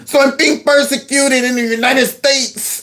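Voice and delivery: put-on Hispanic accent. Redoing the man's complaint in a mock Hispanic accent. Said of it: "I gotta do it in a Hispanic accent".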